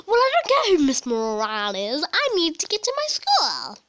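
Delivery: impatient pupil. Pretend. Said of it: "That was amazing".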